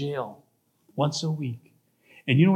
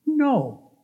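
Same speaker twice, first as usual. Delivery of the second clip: high-pitched drawn-out no; defiant refusal; 8 semitones higher than usual. Acted. Girlfriend refusing her man, high-pitched defiant no. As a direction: refuse in a raised, falling tone.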